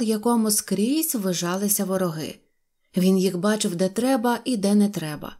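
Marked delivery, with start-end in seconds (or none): none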